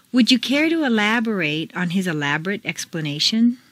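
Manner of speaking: first "elaborate" ends "-RATE", second "-rut"; full A in first "elaborate", reduced in second; contrasting vowel endings. Shown as a demonstration. Teacher reads exercise, "elaborate" full then reduced ending. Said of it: "indicate the long vowel".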